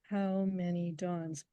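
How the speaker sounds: how, many, dawns stressed equally, slow. Shown as a demonstration. Poet demonstrating equal stress to the interviewer, slow and even. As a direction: give each syllable the same weight. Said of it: "almost identically stressed".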